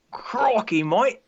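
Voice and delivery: high, loud mock Australian accent; hammed-up Aussie exclamation; badly faked Australian accent; Steve Irwin. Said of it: "Steve Irwin".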